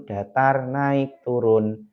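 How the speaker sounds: "datar, naik, turun" intoned slowly, each on its own note; tiga nada. Shown as a demonstration. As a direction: draw out "datar", lift "naik", drop on "turun". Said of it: "rumus tiga nada". ("datar, naik, turun" dilafalkan sesuai nadanya)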